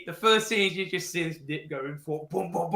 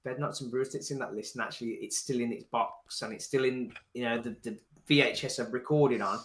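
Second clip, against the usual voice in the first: hushed self-quote; 6 semitones lower, 9 dB quieter than usual. Retold or imitated. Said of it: "and I was like".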